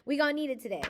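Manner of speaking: high laughing delivery; giggling at her own sass. Real, not acted.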